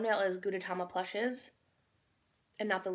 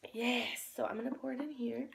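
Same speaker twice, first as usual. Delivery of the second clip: whisper; 4 dB quieter than usual. Real, not acted. Whispered aside while setting up.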